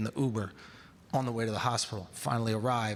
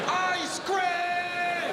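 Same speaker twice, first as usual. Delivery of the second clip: shouted gag. Pretend. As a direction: bellow it out of nowhere. Absurd shouted gag catchphrase.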